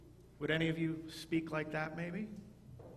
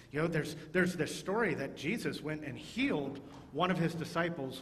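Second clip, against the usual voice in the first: excited telling. Shown as a demonstration. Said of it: "But if you're saying things like".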